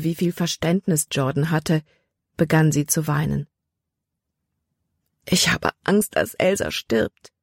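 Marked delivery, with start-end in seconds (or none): 5.2-7.3 a light, understated sob on the last words; Libby sobs out her fear for her sister; sobbing. Acted. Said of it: "schluchzte sie".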